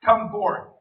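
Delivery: calling out loudly to the tomb; a ringing summons; loud cry. A narrator's reading. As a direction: call him out of the grave. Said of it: "he cried with a loud voice".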